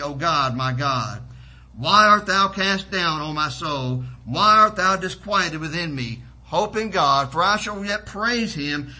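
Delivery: declaimed psalm, ringing key words; scripture reading. Acted. Preacher reads a psalm to the church, declaimed. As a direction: read the psalm out to the congregation with fervor.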